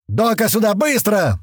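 намного выше, громко зовёт; срочно зови врача; проорал. Acted. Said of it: "проорал Туман". (орёт, зовёт врача)

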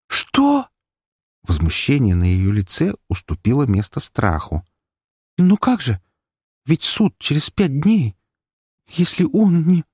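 high, frightened questions. A narrator's reading. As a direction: fear spills into her voice. Fear replaces indignation. (испуганно, высоко)

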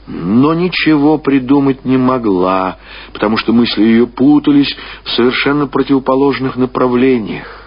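ordinary delivery, nothing marked

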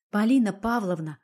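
steady yourself and speak her name calmly; calm after a sigh. Acted. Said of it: "глубоко вздохнув, сказала я".

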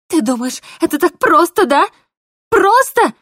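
mock his easy word back at him; bitter disbelief. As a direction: voice climbing high and loud to a cry. Polina crying out at Mark.

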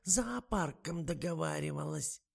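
высокий, медленный старушечий голос; ласково уговаривает, как подслеповатая старушка; болтливая старуха. A narrator's reading. (высокий тягучий голос старой актрисы)

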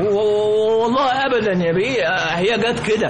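stammering, scared and rushed; nervous stammer. Acted. Driver stammering excuses to his angry boss, nervous. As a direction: stumble over the words, afraid of the boss.

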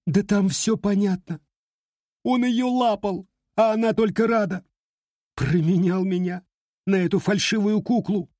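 put-on high, upset girl insisting; a jilted girl, hurt and stubborn; tearful young woman. A narrator's reading. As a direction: heartbroken girl pleading her case. Heartbroken girl voice.

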